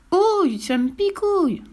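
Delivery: very high pained whine; suffering child's high wail; pleading. Acted. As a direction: yelp and beg for it to stop. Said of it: "supplie-t-il en transpirant".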